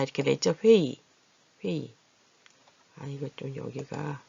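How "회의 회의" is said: 회의 as "hwe-ee", simple final vowel; easy pronunciation. Shown as a demonstration. Teacher shows the easier sound, 회의 as "hwe-ee". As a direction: end 회의 on a plain "ee", no glide. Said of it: "발음하기 좋은 대로 난다".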